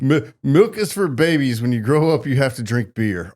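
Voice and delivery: put-on lightly done Austrian accent; a hint of Arnold's Austrian vowels; Arnold Schwarzenegger. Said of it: "Arnold Schwarzenegger".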